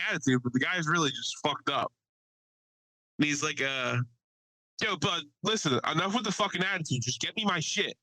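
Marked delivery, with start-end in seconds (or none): 4.8-8.0 a mock outburst, higher and fast in the middle; hammed-up snapping at a coworker; spazzing out. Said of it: "just spazzed on him".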